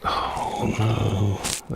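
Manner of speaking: usual speaking voice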